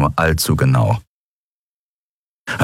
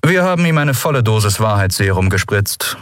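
offhand official report, slightly higher; casual; 4 semitones higher than usual. Acted. Vice commissar reporting on the truth serum, casual. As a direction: report it as if in passing. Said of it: "erklärte der Vizekommissar wie beiläufig".

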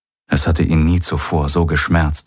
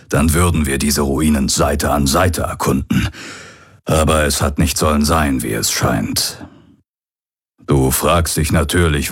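put-on old pirate's recorded message. Hologram of the old pirate addressing his son, lightly voiced. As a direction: speak as the aging pirate father leaving a last message.

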